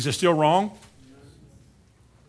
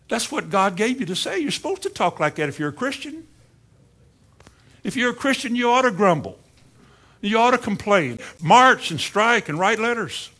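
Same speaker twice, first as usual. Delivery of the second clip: sarcastic; 4 semitones higher than usual. Acted. Sarcastic mock teaching.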